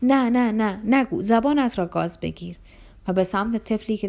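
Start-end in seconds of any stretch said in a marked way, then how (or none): 0.0-2.5 alarmed pleading, hushing her; sudden fright. Acted. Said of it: "ناگهان به وحشت افتاد".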